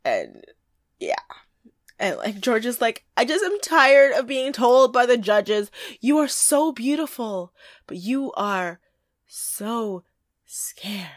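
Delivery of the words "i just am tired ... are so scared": a touch of Tyra's dramatic pause on so scared; Tyra impression. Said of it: "an amazing impression of Tyra".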